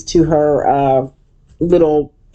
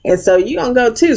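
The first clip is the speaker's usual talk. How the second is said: imitating Toya; 8 semitones higher than usual.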